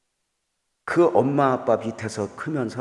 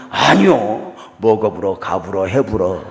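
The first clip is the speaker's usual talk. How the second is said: Jeolla dialect; 4 semitones lower than usual. Retold or imitated. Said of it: "우리 고향 사람들은 다 불어를 써요".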